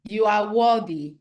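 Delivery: firm affirmation said to another person; booming affirmation. Shown as a demonstration. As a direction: declare it proudly to a partner. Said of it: "By saying".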